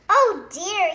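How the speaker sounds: loud high anxious cry; frightened cry. A narrator's reading. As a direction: cry out in alarm. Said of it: "he cried".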